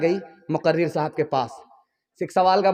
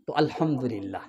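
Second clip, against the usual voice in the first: soft low reply; 8 semitones lower, 8 dB quieter than usual. Acted. Daughter answers mother's questions.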